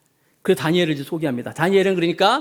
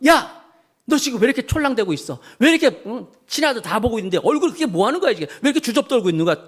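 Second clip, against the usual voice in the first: scolding mother; 6 semitones higher than usual. Retold or imitated. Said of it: "야단을 치는 거예요".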